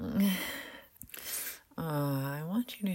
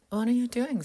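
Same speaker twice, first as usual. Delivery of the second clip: surprised; 7 semitones higher, 7 dB louder, faster than usual. Acted. Sudden proposal surprises her.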